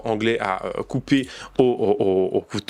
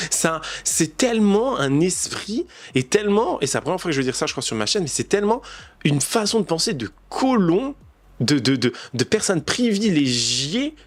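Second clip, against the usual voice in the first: indignant emphasis; 5 semitones higher than usual. Real, not acted. Indignant rant about colonial mindset.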